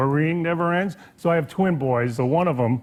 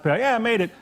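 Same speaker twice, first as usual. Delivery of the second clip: higher, breezy mock carefree son; 6 semitones higher than usual. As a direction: toss it off like nothing happened. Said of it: "he la-di-das".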